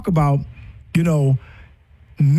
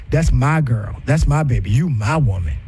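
lower, tender pet names; loving to wife; 6 semitones lower than usual. Retold or imitated. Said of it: "no fear when my wife hears me".

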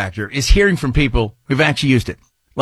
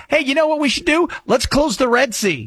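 mock Houthi rebels; 8 semitones higher than usual. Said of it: "What are they saying?".

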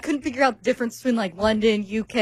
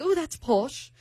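softer, higher mock-British remark; British accent; 4 semitones higher, 5 dB quieter, slower than usual. Quoting the British date's slang in a mock British accent. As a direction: imitate a Brit with a put-on accent. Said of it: "doing with the accent".

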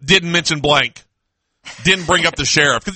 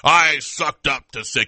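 mocking imitation; 6 semitones lower than usual. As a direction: drag it out low to mock him. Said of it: "He's like".

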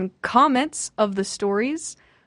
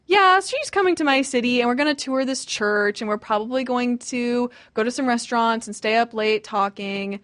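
imitated excitement. Imitating someone planning the city visit, mildly excited. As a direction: act out happy plans tumbling out. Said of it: "by the end".

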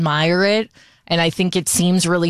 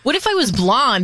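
tentative salon client; 6 semitones higher than usual. Retold or imitated. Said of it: "And I'll be like".

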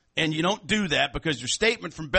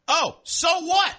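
mock dismissive; 13 semitones higher, 4 dB louder, much slower than usual. Mocking rival complaints.

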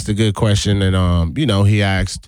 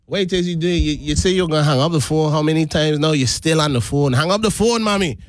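lively Guyanese accent, pitched up on the pleas; natural Guyanese accent; 5 semitones higher, faster than usual. Shown as a demonstration. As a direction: scold Mommy playfully in a Guyanese accent. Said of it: "I talking like this".

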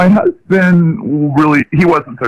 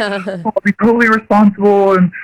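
put-on eager, pleading teen voice; pleading teenager; 5 semitones higher than usual. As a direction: beg like a teenager for a car. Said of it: "like a teenager ... who wants a car".

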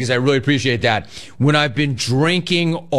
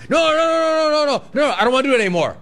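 frantic no; 12 semitones higher, much faster than usual. Retold or imitated. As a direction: backpedal fast, shouting no. Panicked refusal of deal.

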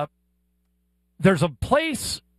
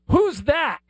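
put-on higher-pitched kid's blunt question; imitated small child; 8 semitones higher than usual. Young son pointing at a stranger at breakfast, imitated child's voice. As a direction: pipe up like a curious little boy.

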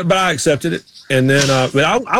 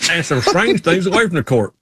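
put-on his own old Southern reporter line, echoed; repeating the report; 3 semitones higher than usual. Repeating his old report line, lightly Southern reporter voice. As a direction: echo the Southern TV line, amused. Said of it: "What was the line?".

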